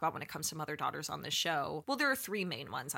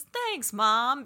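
high, mock sweet thanks; a daughter's snide comeback to her mom's jab, sarcastically sweet; sarcastic thanks; 6 semitones higher, 6 dB louder than usual. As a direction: toss back a sarcastic thank you. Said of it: "And she goes".

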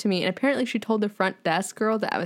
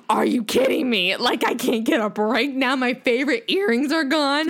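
upset disbelief; 2 semitones higher, 3 dB louder than usual. Retold or imitated. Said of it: "I'm on the floor of the hotel room crying".

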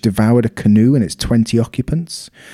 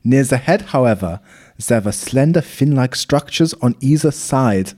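put-on slow, lightly German-accented reading; mock German accent; 3 semitones higher, slower than usual. Reading the German doctor's best line in mock German accent. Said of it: "Should I do the German accent?".

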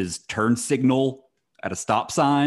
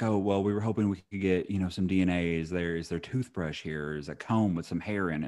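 quiet mock officer; 3 semitones lower, 5 dB quieter than usual. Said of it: "if someone was like".

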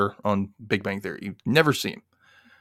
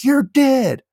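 imitated threat; 7 dB louder than usual. Angry guy threatens Rayanne.

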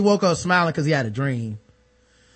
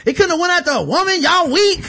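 mock dying rant; 13 semitones higher, 5 dB louder than usual. Imagined dying rant at group.

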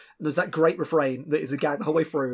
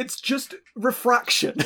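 mock deadpan reveal; 9 semitones higher, slower than usual. Deflating mystical wind chimes.

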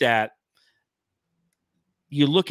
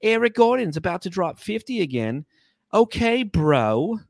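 put-on New York accent, higher voice; 5 semitones higher than usual. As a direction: rant like a New Yorker. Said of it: "so I'll go back to my".

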